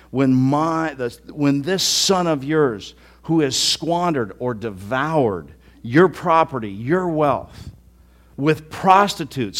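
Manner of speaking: slow, loud and scornful; sarcastic contempt. Acted. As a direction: lean on this with disdain. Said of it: "sarcastically says with contempt".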